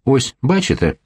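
put-on light Ukrainian accent; a touch of Ukrainian accent. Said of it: "как говорят хохлы".

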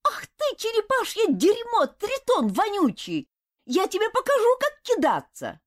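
put-on little boy hollering insults up the tree; yelling furiously. A narrator's reading. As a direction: scream abuse at the thrower. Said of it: "подскочил и заорал".

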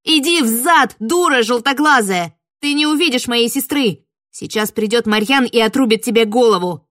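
put-on girl defying the witch, shouting loud; furious yelling. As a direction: keep yelling to shield your sister. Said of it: "заорала я".

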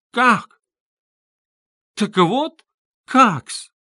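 high, loud disbelief; shocked outburst of a man caught off guard; stunned cry. A narrator's reading. Luzhin stunned by Dunya's refusal, crying out. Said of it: "вскричал Лужин".

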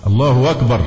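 "الله أكبر" run together as Allahu-wakbar; inserted w. Shown as a demonstration. Teacher mimics muezzin's slip, added w sound. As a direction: glide a w into "أكبر". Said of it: "كأن في واو".

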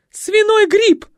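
very high, loud shriek; panicked shriek. Acted. Николетта в ужасе кричит — пронзительный визг. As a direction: shriek the next disease. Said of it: "Николетта".

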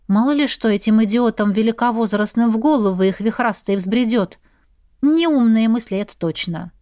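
usual speaking voice

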